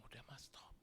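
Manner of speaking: unvoiced hushed plea; whisper. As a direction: breathe "stop" softly to him. Retold hushed plea to stop. (berbisik memohon berhenti)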